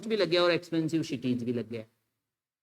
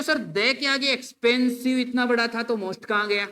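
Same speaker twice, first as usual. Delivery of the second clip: mock student question; 4 semitones higher than usual. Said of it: "आप कह रहे हो".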